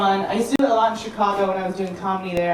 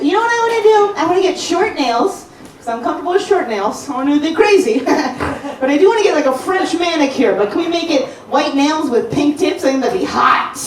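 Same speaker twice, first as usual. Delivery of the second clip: I was like; 6 semitones higher than usual. Retold or imitated. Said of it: "'cause I was like".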